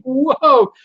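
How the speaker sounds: startled exclamation at a chat message; surprised whoa. Real, not acted. Host reading the live chat, startled whoa.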